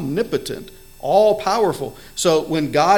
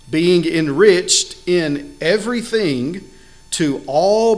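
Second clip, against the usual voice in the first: slow, deliberate reading of the verse; reading verse eight to the congregation, slow and weighty; scripture reading; slower than usual. Acted. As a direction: lay out each phrase of scripture slowly. Reads Second Corinthians nine aloud.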